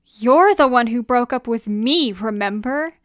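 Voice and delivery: loud, heated accusations; angry outburst. Acted. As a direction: lash out in a bitter argument. Hurtful break-up argument.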